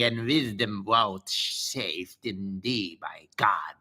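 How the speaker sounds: grand narration with a hushed slow stretch; story reading. Acted. Streamer reading the spirit's answer to Solomon, solemn narration. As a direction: read the spirit's speech like a solemn tale.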